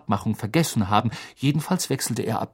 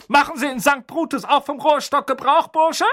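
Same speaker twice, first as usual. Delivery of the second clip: barked across the table; 14 semitones higher than usual. Acted. Aunt barking a question at Harry. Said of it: "blaffte sie über den Tisch".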